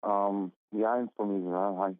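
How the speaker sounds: distant, muffled phone caller; far from phone mic. Real, not acted. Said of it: "I'm having a really difficult time understanding you. Are you on speaker".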